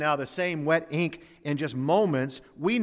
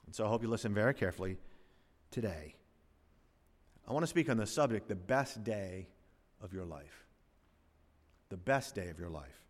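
softened announcement; 7 semitones lower, 10 dB quieter, faster than usual. Real, not acted. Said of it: "announces sermon subject softly".

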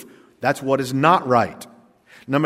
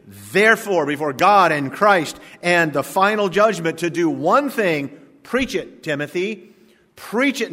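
full-force preaching; 3 semitones higher than usual. Acted. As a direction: drive the command home to the church.

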